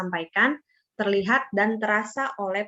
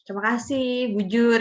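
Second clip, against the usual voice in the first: a light Medan-style thank-you, rising on bujur; Karo thank-you; 3 semitones higher than usual. Shown as a demonstration. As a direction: say bujur brightly with a lift at the end. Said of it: "Bujur kalau di bahasa Karo". (ucapan terima kasih ala orang Karo, sedikit naik di akhir)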